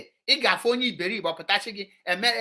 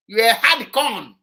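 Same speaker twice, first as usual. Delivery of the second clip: mocking praise; 4 semitones higher, 7 dB louder than usual. Mock praise of protesters.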